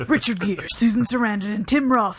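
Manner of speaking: lightly put-on movie trailer announcer. Podcast co-host reading a film synopsis in trailer voice. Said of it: "in my trailer voice".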